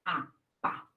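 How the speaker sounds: "A, pá" sounded out in separate, quiet pieces; sounding out phonemes. Shown as a demonstration. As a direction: softly sound out "A", then blend into "pá". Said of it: "ela pôs o fonema".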